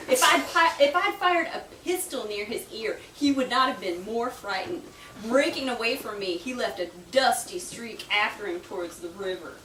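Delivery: a hint of a Southern gentleman telling a joke; Southern accent. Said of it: "Should I do the Southern accent?".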